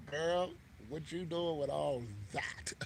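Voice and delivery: mock come-on, drawn out and whispery; breathy, slow, play at being impressed; playful come-on. Playful remark to an imagined woman.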